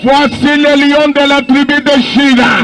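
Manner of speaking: fervent sermon cadence, half shouted; preaching. Acted. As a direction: preach it to the crowd. Preacher in full flow.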